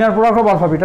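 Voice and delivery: "inner product of alpha beta" read out word by word in English, as a model; careful English reading. Shown as a demonstration. Teacher modelling for a student how to say it, clear English reading. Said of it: "কী উচ্চারণ করবো বলো?".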